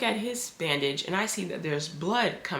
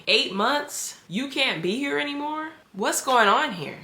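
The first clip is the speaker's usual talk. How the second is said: shocked disbelief; 8 semitones higher than usual. Retold or imitated. Trapped house sitter reeling at the stranger's news, high and alarmed.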